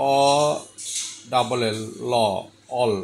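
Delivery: অ, then ল, then অল joined; sounding out অল piece by piece; split into sounds. Shown as a demonstration. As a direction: say the sound অ and ল apart, then join them into অল. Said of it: "এটাকে একটু separate করে দেখাইছি".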